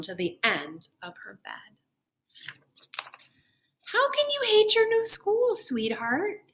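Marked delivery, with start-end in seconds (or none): 3.9-6.4 pitched up, gently amused father; amused dad. A narrator's reading. Father amused by his daughter's protest, light and high. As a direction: tease her out of bed with a chuckle in the voice. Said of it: "Mister Hartwell chuckled".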